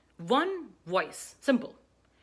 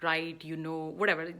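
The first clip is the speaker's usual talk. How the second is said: nervous fillers; 4 semitones lower than usual. Shown as a demonstration. Speaker lists nervous buffer words, hesitant. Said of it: "buffers we use when we are nervous".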